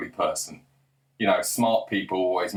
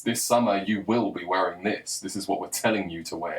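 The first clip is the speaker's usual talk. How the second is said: low, matter-of-fact command; giving an order; 3 semitones lower than usual. Acted. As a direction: lay it down as an instruction, stressing WILL. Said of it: "it's like an order".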